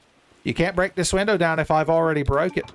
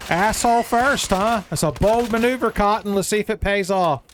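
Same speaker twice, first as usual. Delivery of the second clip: hyped taunt; 7 semitones higher than usual. Real, not acted. Taunting enemy while fighting.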